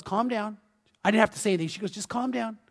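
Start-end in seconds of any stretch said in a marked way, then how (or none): 0.0-0.6 soft, understated hushing; calming. Retold or imitated. Wife calming the impatient driver. 1.9-2.6 very soft, restrained urging; hushed imitation of a patient wife; calming. Wife repeats her calming words.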